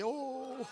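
high, soft oh trailing away; overjoyed oh. Real, not acted. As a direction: let out a relieved, high "oh". Overcome at the good news.

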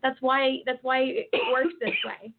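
coughing, choking mid-sentence; choking on a drink. Real, not acted. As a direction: talk through a choking cough. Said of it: "Sorry, I'm just choking".

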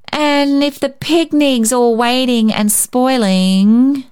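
put-on a small boy insisting, confused; puzzled little boy. A narrator's reading. David's puzzled reply.

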